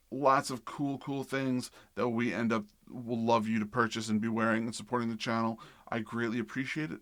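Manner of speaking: upbeat merch plug read. Acted. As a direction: pitch the merch like a sponsor spot.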